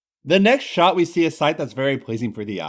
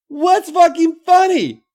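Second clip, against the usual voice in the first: high, loud and slow Irish challenge; demanding; 8 dB louder, slower than usual. Acted. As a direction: demand an answer, pitched way up. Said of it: "she demands".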